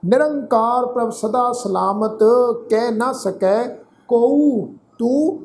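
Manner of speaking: slow, measured Gurbani recitation; scripture recitation. Acted. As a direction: recite each phrase deliberately, with pauses and drawn-out vowels. Recites scripture between explanations.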